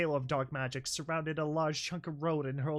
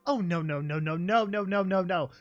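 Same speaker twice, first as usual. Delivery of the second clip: loud repeated no; real no-no-no outburst; real dismay; 6 dB louder than usual. Real, not acted. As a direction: protest the twist out loud. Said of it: "reader's own dismay".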